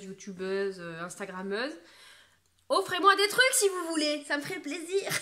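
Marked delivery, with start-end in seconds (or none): 2.7-5.1 high, loud teasing plea; playful fake plea, then laugh; mock begging. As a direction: ham up asking brands for free stuff. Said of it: "Non, je plaisante".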